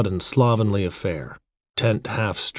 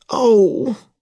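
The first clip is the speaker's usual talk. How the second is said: high, loud pained cry; pained sorrow; 14 semitones higher, 6 dB louder than usual. A narrator's reading. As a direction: cry out as if hurt by an oath. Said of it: "in pain and sorrow at the oath".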